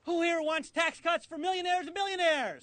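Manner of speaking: shouted question to a crowd; rally call. Real, not acted. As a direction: work the crowd for a big "no".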